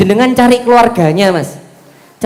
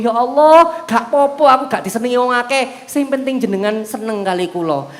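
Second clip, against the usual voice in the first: heartfelt prayer; 2 semitones higher than usual. Acted. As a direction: pray it earnestly, asking God to stay. Mencontohkan doa lagi. (doa yang memohon dengan lirih)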